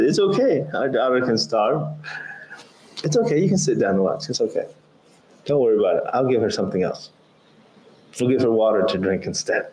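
sarcastic wife. Retold or imitated. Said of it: "She says the opposite".

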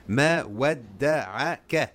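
Ma wadda'aka slowly, every a thin and fronted; tarqiq, light vowels. Shown as a demonstration. Teacher models recitation with tarqiq, slow and light. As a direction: draw out Ma wadda'aka syllable by syllable, all light. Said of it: "is given tarqiq and not".

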